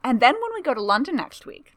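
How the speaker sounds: chatty and pleased with herself; eager young woman voice. A narrator's reading. Tamara's eager voice.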